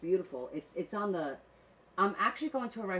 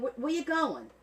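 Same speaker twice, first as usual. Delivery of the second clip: a particular speech pattern, pitched up; 7 semitones higher, 3 dB louder than usual. Showing how you start talking like them: imitating how they talk. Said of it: "you start talking like them a little bit like this".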